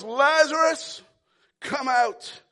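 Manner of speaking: strong call, name stretched; Jesus calling Lazarus from the grave; yell. Acted. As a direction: call out with authority. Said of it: "And he yells".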